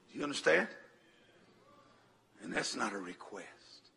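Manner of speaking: low, soft, deliberate threat; quiet warning. Acted. Grandpa ordering the enemy to back off, quiet and menacing. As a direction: lay down the law without raising your voice.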